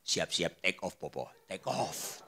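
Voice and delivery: very low, soft aside; hushed mock send-off. Pastor gently telling elderly Popo to get ready, hushed. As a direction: murmur it low, teasing.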